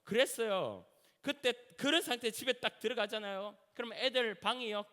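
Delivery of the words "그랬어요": ordinary talk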